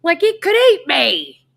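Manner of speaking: high, loud panicked exclamation; mock horror. Storyteller exaggerating the rat's danger, mock horror. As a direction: squeal it in hammed-up alarm. Exaggerating fear of the huge rat.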